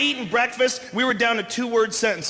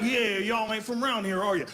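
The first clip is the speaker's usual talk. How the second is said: put-on Texan accent; 3 semitones lower than usual. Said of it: "a fucking certain way of talking".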